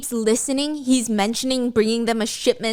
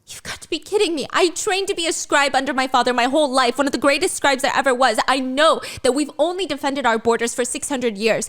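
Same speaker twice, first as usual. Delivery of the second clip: heated argument; 3 semitones higher than usual. Acted. Violet argues with Xaden.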